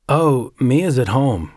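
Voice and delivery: a nervous man stalling for words; nervously. Acted. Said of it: "he said nervously".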